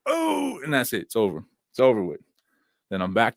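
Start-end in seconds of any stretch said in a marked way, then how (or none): 0.1-0.6 put-on excited kids. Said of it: "they'll just end up going".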